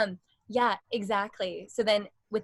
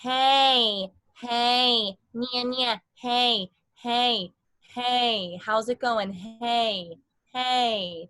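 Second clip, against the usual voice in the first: forward middle voice; 3 dB louder, much slower than usual. Shown as a demonstration. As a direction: call out "hey" like greeting a friend. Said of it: "if I go like".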